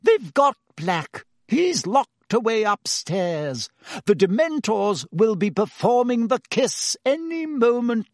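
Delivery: slow, high-pitched soothing. A narrator's reading. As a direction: reassure the patient, drawing words out. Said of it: "said Madame Pomfrey soothingly".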